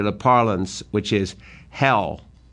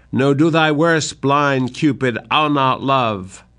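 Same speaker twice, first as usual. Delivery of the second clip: defiant cry; 3 semitones higher than usual. Acted. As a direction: hurl the words at Cupid. Lear defying Cupid.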